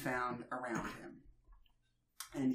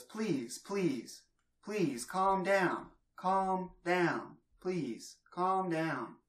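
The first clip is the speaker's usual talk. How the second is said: soothing plea; 4 semitones higher, much slower than usual. Acted. Alexa calms the shocked holidays, slow and soothing. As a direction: settle a panicked room gently.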